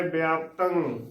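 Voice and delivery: ਵਿਆਪਤੰ as "bi-aap-tang"; correct pronunciation demo. Shown as a demonstration. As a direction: say ਵਿਆਪਤੰ with an i-glide after the b. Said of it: "ਉਚਾਰਨ ਕਰਨਾ ਹੈ".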